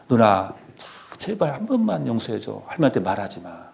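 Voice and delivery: put-on softly begging an older sister; hushed, mock-desperate plea; acted pleading. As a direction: plead under the breath to keep a secret. Boy begs sister for secrecy.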